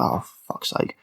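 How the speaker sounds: breathy whispered groan of annoyance; exasperated whisper. Real, not acted. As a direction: mutter it under your breath, fed up. Exasperated reaction to plot.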